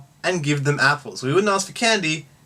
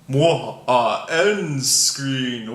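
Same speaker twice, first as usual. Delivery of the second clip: slow fumbling; much slower than usual. Real, not acted. Fumbling the end screen.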